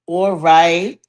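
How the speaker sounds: all right repeating and fading into an echo; echoing intro. Acted. Host opening the show with a fading echo. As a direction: let the words ring out and die away like a studio echo.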